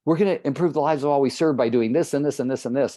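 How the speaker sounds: hurried, piling on clauses; rushed wordy version. Shown as a demonstration. Coach showing his old habit of saying too much. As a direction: rattle it off like a list that won't end. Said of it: "my tendency ... is to say too much".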